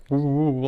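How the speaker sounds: imitated muffled "woo woo" babble; muffled talk noises. Hearing the lady across the table through AirPods, imitated muffled noise. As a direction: mimic talk heard muffled through earbuds.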